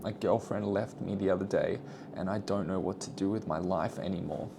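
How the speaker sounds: soft, hammed-up sad voice; mock sad. Shown as a demonstration. Coaching viewers, hamming up a sad breakup line. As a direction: play it mopey and quiet, half-joking. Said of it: "And, and then sad".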